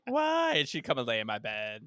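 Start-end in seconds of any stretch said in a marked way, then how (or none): 0.1-0.5 imitating wife. Wife's reply in retold story.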